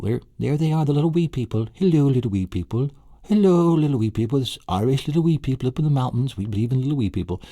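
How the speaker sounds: high, far-off little fairy-folk voice, greeting them cheerily; wee people voice. Pretend. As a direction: squeak it like a tiny Irish leprechaun saying hello. Greeting imagined tiny Irish people.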